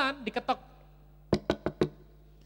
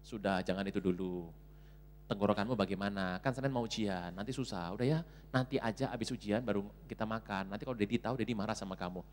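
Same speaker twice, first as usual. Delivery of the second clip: low, soft parental reasoning; mother gently refusing; 8 semitones lower, 6 dB quieter than usual. Acted. Mother putting off child's chicken request, low and soothing. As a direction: talk the child down quietly.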